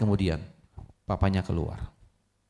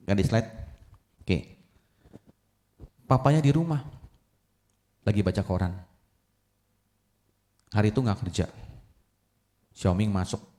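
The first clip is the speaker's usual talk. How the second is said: normal talking voice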